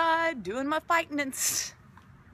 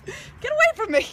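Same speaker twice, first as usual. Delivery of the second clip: fending off; 11 semitones higher, 4 dB louder than usual. Real, not acted. Pet biting her.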